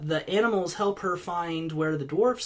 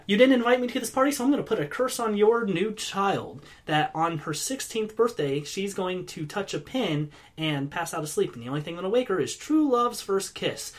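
laying a curse; 3 semitones higher than usual. Retold or imitated. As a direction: rattle off the curse like a spiteful witch. Witch curses the child.

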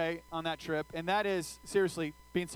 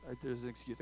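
sheepish excuse; 8 semitones lower, 12 dB quieter than usual. Retold or imitated. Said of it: "I'm like".

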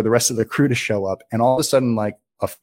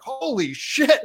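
startled fright; much slower than usual. Retold or imitated. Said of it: "they looked at me like".

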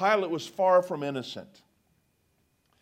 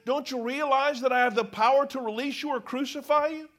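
threatening; 5 semitones higher than usual. Acted. Pilate threatening Jesus.

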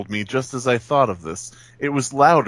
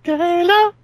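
calling out; 4 dB louder than usual. Acted. Calling a friend to take her turn.

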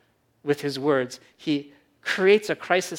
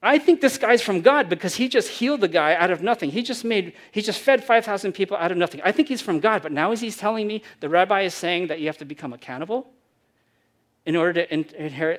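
excited crowd; 2 semitones higher, 5 dB louder, faster than usual. Retold or imitated. Crowd's inner voice retold.

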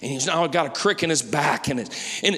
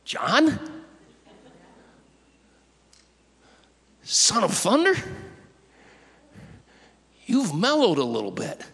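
high, rising disbelief; astonished double-take with a sharp upward lift; incredulous questioning; 5 semitones higher than usual. Acted. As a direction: ask as if you can't believe it's him. Acts surprise at mellowed John.

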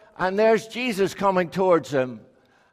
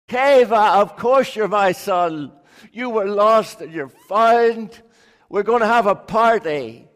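joyful father; 2 semitones higher, 4 dB louder than usual. Acted. Father welcomes lost son.

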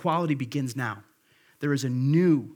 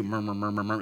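murmuring sound; 6 semitones lower, faster than usual. Shown as a demonstration. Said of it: "murmur is kind of the same way too".

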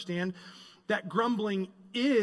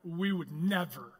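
Israelites denying; 4 semitones lower, 4 dB quieter than usual. Retold or imitated. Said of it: "Israel in their shoes".

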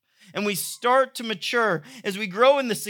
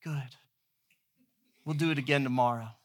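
much softer, hushed bedtime answer; soft reply; 6 semitones lower, 8 dB quieter than usual. Retold or imitated. Dad answering his sleepy kids, hushed and soft. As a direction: murmur it so you don't wake them.

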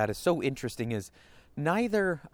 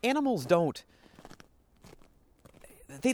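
ordinary talk, nothing marked

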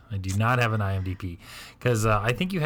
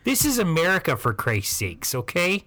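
a higher-pitched racist Midwest grandma, outraged; Midwest accent; 4 semitones higher, slower than usual. Retold or imitated. Grandparent outraged at the Mexican market, in a high Midwest accent. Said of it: "the Midwest accent is real".

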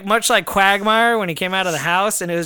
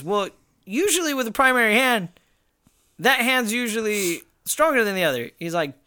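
imitating trainer; 6 semitones higher than usual. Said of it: "And he goes".

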